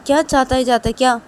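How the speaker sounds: loud, high, rising scold; scolding friend. Acted. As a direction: order him to sit down. Vikas scolding Rahul.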